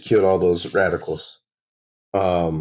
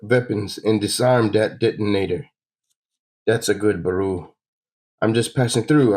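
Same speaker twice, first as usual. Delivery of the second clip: cocky bandit; 3 semitones higher than usual. Acted. Player reading a bandit's robbery demand, lightly smug. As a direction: taunt them like a smug thief.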